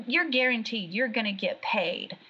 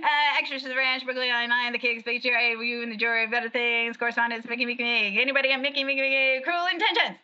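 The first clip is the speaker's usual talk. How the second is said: auctioneer; 3 semitones higher, faster than usual. Pretend. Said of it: "Read it like an auctioneer".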